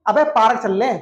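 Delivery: पार्क said as "paa-ruk" in street talk; mock a casual speaker saying "paa-ruk" for पार्क; mimicked casual mispronunciation. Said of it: "बोलने की practice करो". (पार्क को "पारक" बोलने की नकल)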